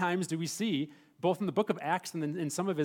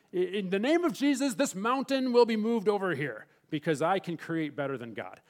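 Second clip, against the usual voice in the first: mock boastful prayer; 4 semitones higher, 5 dB louder than usual. That's silly.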